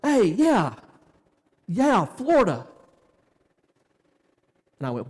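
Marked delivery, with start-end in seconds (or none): 0.0-2.7 mock bro greeting. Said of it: "and he's like".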